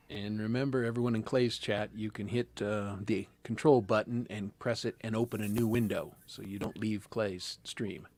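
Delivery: lightly voiced laid-back metalhead hippie; a hint of a metalhead hippie, slowing at the end; metalhead hippie impression. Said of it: "That, that, that was my metalhead hippie impression".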